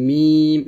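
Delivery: মিম drawn out, lips meeting for each m; mim from the lips. Shown as a demonstration. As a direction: stretch the vowel of মিম and close on the lips. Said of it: "দুই ঠোঁটের শুকনা জায়গা হতে".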